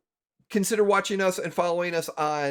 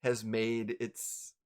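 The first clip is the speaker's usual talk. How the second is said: slow, suspenseful narration with long pauses; game master scene setting; 5 semitones lower, 5 dB quieter than usual. A narrator's reading. Game master revealing the Harper pin to players, suspenseful narration. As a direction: draw out each detail toward the reveal.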